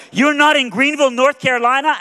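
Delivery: loud, high incredulous yell. Retold or imitated. Friend on the phone to stranded preacher, high incredulous yell. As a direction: yell it in disbelief. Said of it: "and so he yells".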